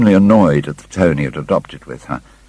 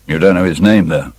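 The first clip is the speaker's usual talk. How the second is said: a touch of harshness, slightly louder; harsh; 4 dB louder than usual. Acted. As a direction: press her, curt and a bit hard. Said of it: "said the lad harshly".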